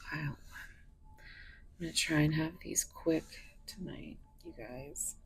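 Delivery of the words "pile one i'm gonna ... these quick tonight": ordinary delivery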